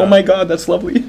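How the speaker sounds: high, mock-smitten gush; charmed gushing. Groupie charmed by a fake French word, mock gushing. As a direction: imitate a delighted, taken-in date.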